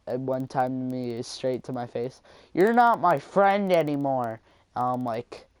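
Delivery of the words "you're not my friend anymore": higher, louder imitation of a classmate; indignant mock outburst; retold indignant declaration. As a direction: mimic a kid announcing the friendship is over. Retold classmate ending the friendship.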